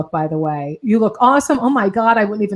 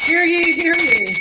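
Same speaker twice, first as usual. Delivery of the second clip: mock town crier, higher and bright announcing; a touch of an old-time crier; town crier call; 7 semitones higher than usual. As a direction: cry it out like a herald in the square. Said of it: "can I just do my quick commercial".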